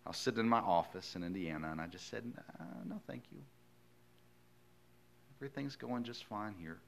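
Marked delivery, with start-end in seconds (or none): 2.6-6.8 higher, softer, sheepishly polite no; hammed-up nervous politeness, brushing it off; mock polite refusal. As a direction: pastor imitating himself declining God's call, lightly mocking. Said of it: "and I said it very politely".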